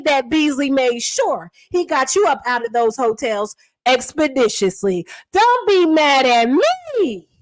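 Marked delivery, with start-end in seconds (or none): 5.3-7.3 slow, teasing, drawn-out; mock apology. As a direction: lean into the sarcasm, slowly. Refrain of the roast.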